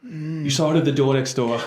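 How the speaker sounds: put-on dropped-r Boston accent, coaching; Boston vowels, door as "doah". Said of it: "It's almost Boston".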